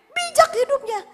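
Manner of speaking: high, loud, punchy exhortation; forceful preaching. Real, not acted. Preacher teaching what faith is, high and loud. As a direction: hammer the point to the crowd.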